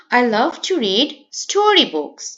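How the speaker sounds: slow model reading, weight on "story books"; stress on STORY BOOKS. Shown as a demonstration. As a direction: set "story books" apart with emphasis. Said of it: "সেজন্য সেটা stressed ওয়ার্ডস". ("story books"-এ জোর দিয়ে ধীরে পড়া)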